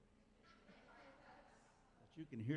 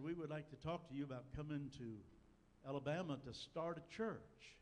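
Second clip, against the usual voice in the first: imitated Southern accent; touch of a put-on Southern accent; Fred Vines; 3 semitones higher than usual. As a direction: lightly imitate an Alabama brother's Southern speech. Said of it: "in his southern accent".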